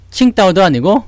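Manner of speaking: normal talking voice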